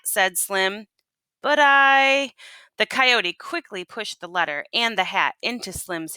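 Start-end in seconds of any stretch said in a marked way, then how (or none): 1.4-2.3 quick startled cry, cut short; startled protest. Acted. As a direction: blurt it before being cut off. Slim cut off.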